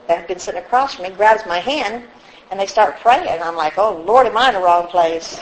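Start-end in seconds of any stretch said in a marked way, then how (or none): 3.8-5.4 amused disbelief, chuckling; laughing. Retold or imitated. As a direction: laugh through the words, half panicked. Panicked inner thought, laughing.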